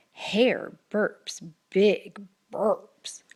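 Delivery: slow breathy whisper; whispered storytelling. A narrator's reading. Narrator whispers while the bear sleeps. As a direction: savour each little sound.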